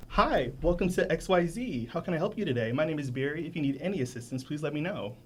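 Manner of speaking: polite, straightforward store-greeter voice; code-switched customer greeting. Shown as a demonstration. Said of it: "I would instantly code switch".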